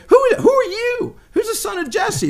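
high, loud scornful mock question; mocking insult. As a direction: sneer it like a rich man insulting David. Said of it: "He's insulting him".

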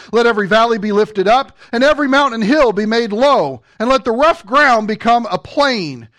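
firm, rolling Bible reading; preacher reciting verse with emphatic beats; scripture proclamation. Acted. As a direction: read the prophecy out with steady force. Reads scripture aloud forcefully.

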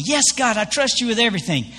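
eager climber, lightly acted; excited. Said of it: "the man's so excited".

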